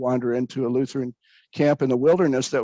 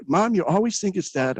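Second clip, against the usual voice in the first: mock angry retort; 6 semitones higher than usual. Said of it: "I would get so mad".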